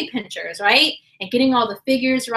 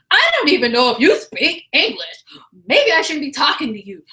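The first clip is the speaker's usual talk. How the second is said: rude; 2 semitones higher than usual. Retold or imitated. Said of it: "she was getting very verbally abusive".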